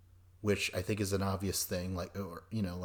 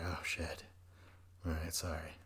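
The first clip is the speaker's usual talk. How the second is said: small, low, quieter voice; mock sheepish apology; 4 semitones lower, 10 dB quieter than usual. Newcomer answering castmates' abuse, mock sheepish apology. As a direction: play meekly backing down, softly. Acted meek reply to being heckled.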